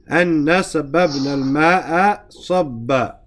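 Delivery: quick recited verse in Arabic; Quran recitation. Shown as a demonstration. Teacher reciting the verse to his class, brisk and chanted.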